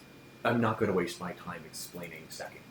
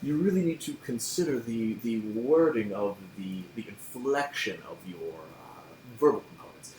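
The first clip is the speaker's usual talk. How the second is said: pompous lecturer; 4 semitones higher than usual. Acted. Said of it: "He's like".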